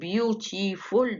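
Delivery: "beautiful" broken into separate syllables. Shown as a demonstration. Teacher counting the syllables for students, "beautiful" split up. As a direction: sound out "beautiful" in three slow beats. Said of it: "دول تلاتة".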